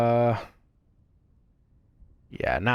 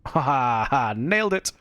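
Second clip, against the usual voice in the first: triumphant; 2 semitones higher than usual. Real, not acted. Triumph after dodge.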